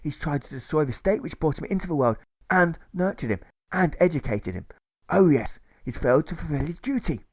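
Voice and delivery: a lightly voiced stern commander; stern officer. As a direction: pronounce the charge like a judge. Commanding officer condemns prisoner.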